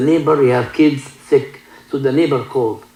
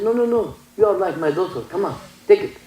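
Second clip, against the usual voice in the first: gentle doctor; 5 semitones higher, 3 dB quieter than usual. Retold or imitated. Kind doctor insisting on gift.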